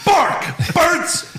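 very high yelped words; mock animal cries. Mocking literal script reading, very high yelps. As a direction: yelp each word like a noise. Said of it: "but the dog doesn't say".

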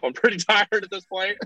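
amused understatement; laughing. Real, not acted. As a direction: laugh through the admission.

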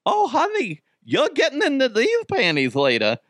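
mock-saucy elderly woman impression; flattered old lady. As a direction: put on a high, coy granny voice.

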